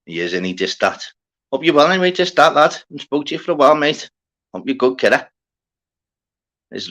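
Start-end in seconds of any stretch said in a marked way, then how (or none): 1.5-5.3 higher and louder, quick cheerful hello; chirpy welcome to a regular; bright greeting. Real, not acted. Streamer cheerfully greets a returning viewer.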